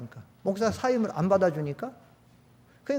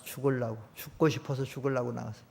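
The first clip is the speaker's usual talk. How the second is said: much lower and softer, almost murmured "죽으려고"; hushed repetition; 8 semitones lower, 8 dB quieter than usual. Shown as a demonstration. Pastor letting the grim news sink in, hushed and low. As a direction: drop to a hush on "죽으려고" to let it sink in.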